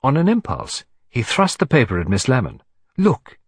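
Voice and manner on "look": high, sudden command; demanding. Acted. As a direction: demand attention with one word. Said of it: "he demanded".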